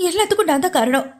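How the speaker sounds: a touch of wailing, pitch pushed up and rushing; wailing in grief. A narrator's reading. Woman blaming herself over her uncle, mild wail. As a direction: read it as a grieving woman's cry. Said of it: "கதறினாள்".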